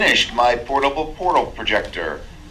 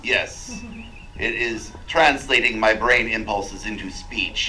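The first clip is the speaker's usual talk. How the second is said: robotic vocoder speech. Acted. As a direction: speak through a vocoder. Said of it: "speak through this vocorder".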